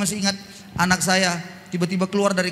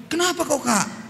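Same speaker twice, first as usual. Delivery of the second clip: mother asking gently; 4 semitones higher than usual. Retold or imitated. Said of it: "Kata mamanya".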